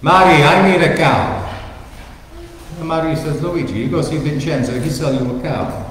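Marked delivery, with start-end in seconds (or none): 0.0-1.4 put-on a touch of a southern Italian accent; lightly voiced Italian husband with an Italian accent. Luigi tells his wife he needs a cow, light Italian accent. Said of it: "an Italian couple in southern Italy". 3.4-5.9 put-on Italian accent. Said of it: "an Italian couple in southern Italy".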